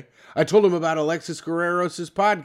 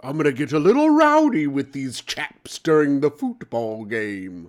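mock British football guy. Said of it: "What is this accent?".

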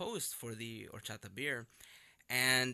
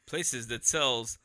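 slow, deliberate, dodging the name; drawn-out coy phrasing; slow careful euphemism; 5 dB louder, slower than usual. Acted. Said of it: "that's not right either".

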